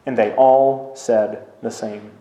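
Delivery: measured, solemn Bible reading with long pauses; scripture reading. A narrator's reading. Scripture reading aloud in church.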